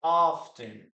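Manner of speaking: "Often" with the T said, off-ten; sounded T. Shown as a demonstration. Teacher demonstrates the British English variant, sounded T. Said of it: "in British English".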